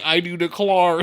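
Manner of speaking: "declare" said as "de-clar"; mimicked botched accent. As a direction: quote the bad accent, "declare" ending "clar". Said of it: "it's like ten minutes of you saying".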